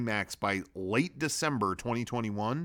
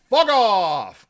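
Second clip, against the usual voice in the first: angry shout; 10 semitones higher, 11 dB louder than usual. Real, not acted. Ranting against covid media.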